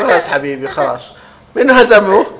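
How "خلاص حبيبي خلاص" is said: soothing. Real, not acted. Parent soothing a crying child.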